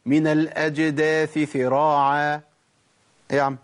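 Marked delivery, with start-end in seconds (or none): 0.1-2.4 "سراعا" said as ثراعا, with ث; wrong ث for س. Shown as a demonstration. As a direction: turn the س of "سراعا" into a ث, the error. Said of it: "ولا أقول". (نطق خاطئ: "سراعا" بالثاء)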